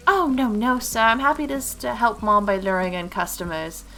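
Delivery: emphatic, polite little helper; eager little shopgirl. Acted. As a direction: hurry to reassure as a dutiful child. Girl protesting she's happy helping.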